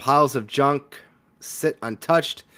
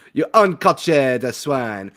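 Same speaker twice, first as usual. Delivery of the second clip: haughty insult; 5 dB louder, slower than usual. Acted. Cat insulting the guest.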